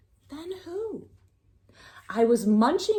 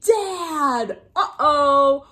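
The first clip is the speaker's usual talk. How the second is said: surprised exclamation; 7 semitones higher, 7 dB louder, much slower than usual. Acted. Surprised reveal of dad.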